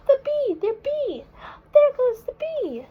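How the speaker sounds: high, loud cry of alarm; excited shout. Acted. Reader cries out to children as the bee flies off, excited shout. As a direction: yell it as the bee gets away.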